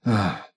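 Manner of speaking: low, soft groan; low sigh. Acted. Man finding he's been left alone, groaning low. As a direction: let out a small deflated "ah".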